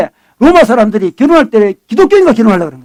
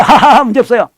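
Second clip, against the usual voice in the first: hearty put-on laugh running into words; carefree mock laughter. Preacher playing a contented single, carefree mock laugh. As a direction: laugh it off breezily.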